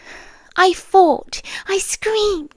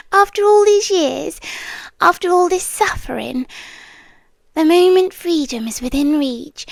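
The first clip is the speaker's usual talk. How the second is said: intimate, lightly voiced otherworldly captor; a seductive haunted-house presence making a deal; captive spirit pleading. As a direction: coax the listener to stay, half whispered. Captor entity bargaining with listener.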